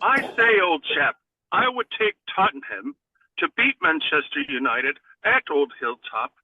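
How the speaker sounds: a hammed-up posh English accent. Asked by his cohost to give his pick in an English accent. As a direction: play the old-chap Englishman, half-hearted. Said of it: "English accent, please".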